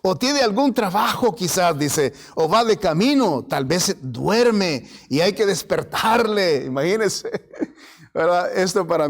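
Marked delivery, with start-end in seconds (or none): 0.0-1.8 burlón y más agudo, alargando "porque Dios es"; burla de Elías. Retold or imitated. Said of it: "se burlaba de ellos diciendo". 2.4-6.6 burla. Retold or imitated. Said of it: "se burlaba de ellos diciendo".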